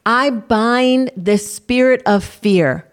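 earnest spoken prayer, steady and measured. Acted. Prayer continues.

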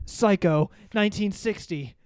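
imitating a movie buff. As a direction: rattle off the film facts like a smug cinephile. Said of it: "they'll be like".

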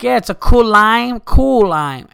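very loud, high mock Asian accent. Casino customer confirming the drink's name, loud mock Asian accent. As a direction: insist loudly in an imitated Asian accent. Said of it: "in this Asian voice".

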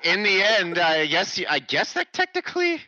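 high, loud words broken by laughter; laughing through words. Real, not acted. Cohost cracks up joking that it technically works, laughing loudly.

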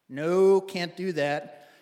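imitated Canadian, loud drawn-out "No"; Canadian accent. Canadian helper refuses the driver a ride, imitated Canadian accent. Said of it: "the strongest Canadian accent".

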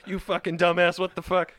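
hammed-up furious rant at a driver; road rage. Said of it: "Oh, sorry, road rage".

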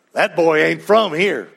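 light mock southern accent. Preacher voicing someone spotting an outsider, light southern accent. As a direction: say it with a hint of southern twang. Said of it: "a southern accent right away".

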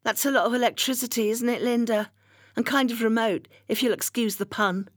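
high and quick, lightly voiced busybody; a hint of a prim neighbour, quick and high; nosy neighbour. Julia continues, teasing.

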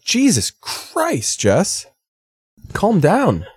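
retold high-pitched protest at a harsh joke; mock exasperation. Retold group reaction to sister's jab.

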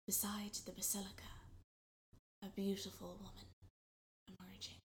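soft and breathless, barely voiced; awed whisper. A narrator's reading. Narrator whispering as the beautiful woman appears. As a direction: whisper as if she might hear.

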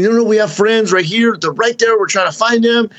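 mock pleading. Pleading with parking attendant.

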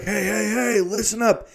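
high bratty call for attention; squeaky mock teen announcement; mock Buzz. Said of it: "And Buzz like".

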